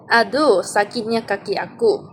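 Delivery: mock pain cry. Shown as a demonstration. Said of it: "meluahkan perasaan atau emosi".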